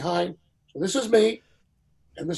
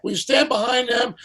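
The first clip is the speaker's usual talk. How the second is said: calling out names, higher and louder; a famous singer calling names; 6 semitones higher, 5 dB louder than usual. Retold or imitated. A famous singer lining up stars on the dais, a loud commanding call. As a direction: summon the stars like the host in charge. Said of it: "So he says".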